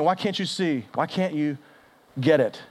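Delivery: hushed, pained pleading; acted weeping plea. Jesus to those who don't understand, softly acted weeping plea. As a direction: plead softly, sinking at the end. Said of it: "Jesus is weeping, saying".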